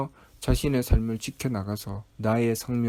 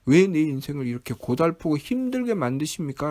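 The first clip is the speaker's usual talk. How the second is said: high, loud mock complaint to God; resentful protest; 5 semitones higher, 4 dB louder than usual. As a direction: act out an aggrieved outburst, easing toward the end. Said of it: "라고 원망하죠".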